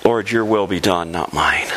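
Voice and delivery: hushed prayer to the Lord; humble prayer. Retold or imitated. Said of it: "we pray as Jesus did".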